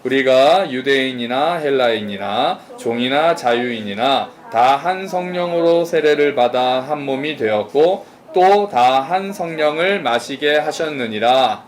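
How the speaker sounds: slow, measured unison scripture reading; reading scripture together. Real, not acted. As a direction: read it slowly together with the congregation. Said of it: "우리 한번 한 목소리를 읽겠습니다". (천천히 함께 읽는 성경 낭독)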